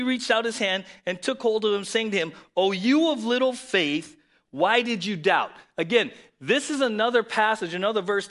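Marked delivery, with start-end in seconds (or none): 2.6-5.5 mild scolding. Retold or imitated. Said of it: "It's a scolding".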